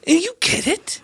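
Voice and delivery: whispered high. Acted. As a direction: murmur it under breath. Whispered exchange.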